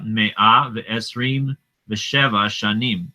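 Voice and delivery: slow careful "Me'a Ve'esrim Ve'sheva Shanim"; teacher reading Hebrew aloud. Shown as a demonstration. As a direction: read the Hebrew number slowly. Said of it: "you could have just said".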